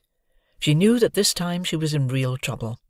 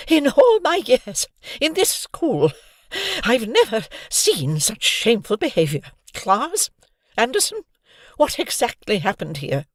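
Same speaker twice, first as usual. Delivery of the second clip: stern teacher; 9 semitones higher than usual. Acted. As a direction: scold with shocked authority.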